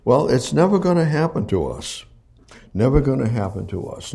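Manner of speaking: mock complacency. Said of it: "they gonna say".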